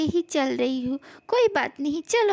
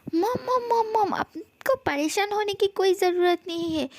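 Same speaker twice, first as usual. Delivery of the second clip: urgent high calls of mom; hasty calling out; 5 semitones higher than usual. Acted. To his worried mom, stopping her fussing, urgent calling out. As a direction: cut her off before she fusses.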